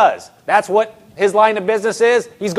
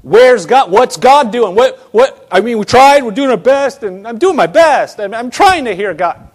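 mock exasperated believer; acted frustrated questioning; familiar complaint. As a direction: plead your case, protesting that you tried. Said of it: "But that may sound familiar".

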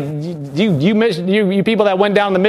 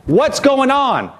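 drawn-out, higher mock indignation; retold mad demand; 4 semitones higher, much slower than usual. Daniel demanding answers from his teacher, mock mad. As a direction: stretch it out in mild exasperation. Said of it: "he gets all mad".

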